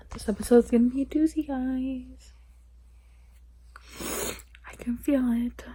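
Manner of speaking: real tearful whisper; teary whisper. Real, not acted. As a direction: breathe it out after crying. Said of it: "bawled my eyes out".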